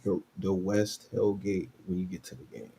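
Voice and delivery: quiet, just-between-us murmur; confidential near-whisper. Real, not acted. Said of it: "I'm gonna whisper to you".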